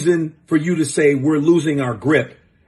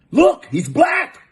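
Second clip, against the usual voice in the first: mock proud dad; 14 semitones higher, 3 dB louder, slower than usual. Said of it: "And he goes".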